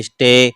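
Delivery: स्टे with the ए stretched; drawn-out vowel. Shown as a demonstration. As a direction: draw out the vowel at the end of स्टे. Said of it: "थोड़ा खींच के पढ़ा गया है".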